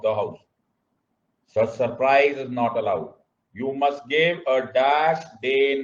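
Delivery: slow, stretched-out recitation; measured drill with drawn-out key words; classroom dictation. Shown as a demonstration. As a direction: dictate word by word for the class to follow. Leads slow recitation of procedure.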